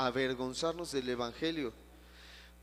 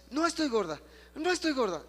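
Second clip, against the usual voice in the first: higher and louder, fully convinced; said even more strongly; 9 semitones higher, 5 dB louder than usual. Retold or imitated. Pastor voicing the woman's stronger repetition, higher and louder. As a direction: push it up, proclaim it. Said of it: "dilo así".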